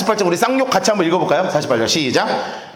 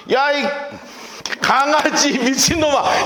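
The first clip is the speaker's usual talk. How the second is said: higher, slow mocking yell of an insult; insulting shout; 7 semitones higher, slower than usual. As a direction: hurl the insult like a taunt. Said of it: "대놓고 욕하는 거예요". (느리게 높여 내지르는 욕설)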